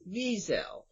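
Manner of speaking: Wiesel said as VEE-zel, stress on the first syllable; proper Wiesel. Shown as a demonstration. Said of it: "The, the proper way".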